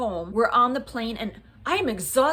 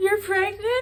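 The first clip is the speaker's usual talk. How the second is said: put-on high, tearful, sobbing, bawling voice; 9 semitones higher than usual. Retelling the husband's reaction to a positive test, imitating someone bawling. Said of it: "He started bawling".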